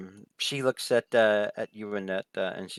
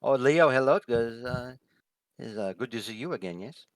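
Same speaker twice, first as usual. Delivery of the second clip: lightly voiced hostess, hesitant; 4 semitones higher than usual. Hostess greets Leo, who is no social call, lightly hesitant. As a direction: greet an unexpected guest with polite hesitation. Game master voices Floor.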